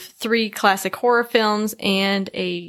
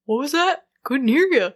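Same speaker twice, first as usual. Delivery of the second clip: imitating a dad; 4 semitones higher than usual. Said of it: "dad goes".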